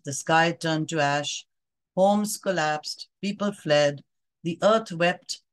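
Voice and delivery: poem reading. Acted. Reads a poem aloud.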